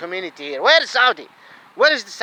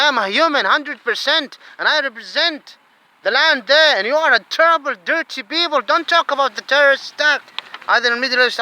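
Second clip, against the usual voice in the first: raised, heated accusation; angry rant; 5 semitones higher than usual. Real, not acted. Angry migrant accusing the government, raised voice. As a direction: hurl it at them. Ranting at the West.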